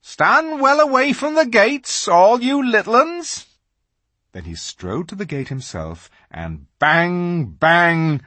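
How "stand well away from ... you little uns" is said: high, loud friendly giant. Acted. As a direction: call down to the little ones. Giant calls to crowd.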